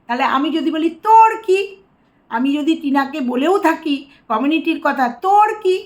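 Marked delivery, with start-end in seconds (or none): 1.0-1.6 higher, louder "none of your business" jab; challenging retort. Acted. Acted retort to the rival. 5.2-5.7 higher, louder "none of your business" jab; challenging retort. Acted. Acted retort to the rival.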